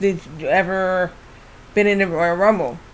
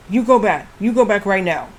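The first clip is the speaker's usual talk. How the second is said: put-on light Indian-accented English, go said as koh, back as pack; Great Khali's accent. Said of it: "said it in his English accent".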